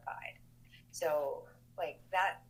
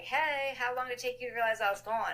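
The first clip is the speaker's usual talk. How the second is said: higher and louder, playful jab; brother's teasing call; 7 semitones higher, 5 dB louder than usual. Retold or imitated. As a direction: tease her like a cocky little brother. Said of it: "And he's like".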